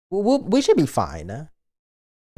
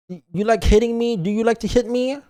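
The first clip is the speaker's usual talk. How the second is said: higher, playful mock hurt; higher squeaky mock outrage; mock indignant; 8 semitones higher than usual.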